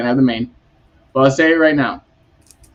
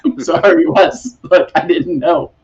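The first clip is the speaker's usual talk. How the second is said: mock apology; 3 semitones higher than usual. Retold apology, laughing.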